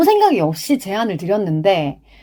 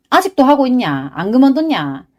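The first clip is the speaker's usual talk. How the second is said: imitating sarcastic acquaintances, slightly raised pitch; mock sneering; 4 semitones higher than usual. Acquaintances teasing the host for still podcasting, mock sneering. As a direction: needle the podcaster with mock disbelief. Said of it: "이렇게 말하는 지인들의 빈정거림도".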